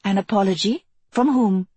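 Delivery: mock-sweet innocent question; sugar-coat the jab; sweetly. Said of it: "asked sweetly".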